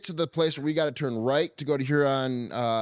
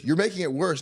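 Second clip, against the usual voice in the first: higher-pitched retold complaint; scolding; 5 semitones higher than usual. Wife in labor to panicking husband, retold exasperation.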